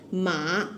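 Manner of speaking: "ma" dipping low, then rising; Mandarin third tone. Shown as a demonstration. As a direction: let "ma" fall and climb back up. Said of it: "third tone".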